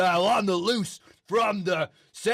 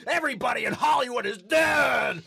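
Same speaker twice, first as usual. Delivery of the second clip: mock doom shout; 3 semitones higher than usual.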